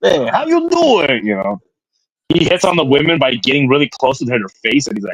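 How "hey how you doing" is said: put-on old man voice, higher. Mocking a man who looks like he runs a fruit stand: imitating an old fruit-stand man. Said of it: "He looks like he runs a fruit stand".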